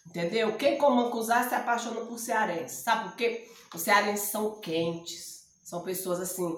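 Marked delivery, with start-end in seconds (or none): none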